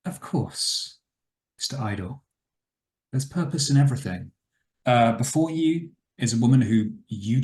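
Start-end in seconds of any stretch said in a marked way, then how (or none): 0.1-4.3 lightly voiced aristocratic surgeon; measured reply with a hint of an aristocrat; high-pitched aristocrat. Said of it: "a high-pitched, uh, aristocratic voice say".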